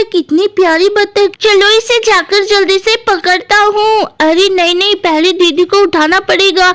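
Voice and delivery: hint of a curious, delighted boy; lightly voiced Guddu. Guddu spots the duck on the roof, mildly delighted. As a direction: lightly play a child discovering something lovely.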